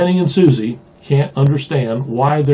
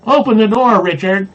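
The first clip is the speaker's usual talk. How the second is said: high-pitched yell, read-aloud size; 8 semitones higher, 3 dB louder than usual. A narrator's reading. Blue Jay child yelling at Richard to open up, yelling. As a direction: call out high like a rude kid. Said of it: "when they're not yelling something worse".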